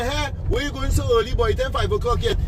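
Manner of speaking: a wife gently questioning her husband; wife's voice. Retold or imitated.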